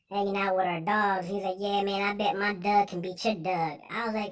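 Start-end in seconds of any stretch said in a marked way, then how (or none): 1.6-3.8 imitated Baltimore friend, "dog" as "Doug"; Baltimore accent. Retelling a Baltimore friend's boast, Baltimore accent. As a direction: lightly mimic a Baltimore accent. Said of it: "How the hell your whole accent changed?".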